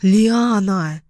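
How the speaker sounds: "Лиана" drawn out with a falling end; mild scolding "Лиана", falling tune; sharp rebuke. A narrator's reading. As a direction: pull her up with "Лиана", dropping at the end. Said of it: "одёрнула меня Карина".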